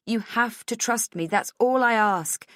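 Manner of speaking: high, loud, insistent; impassioned plea. A narrator's reading. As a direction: plead urgently to be trusted. Pleading to be believed.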